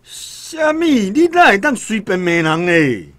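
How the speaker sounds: indignant surprise. Acted. Deshen protesting to the official, indignant and startled. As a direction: bristle at the insult.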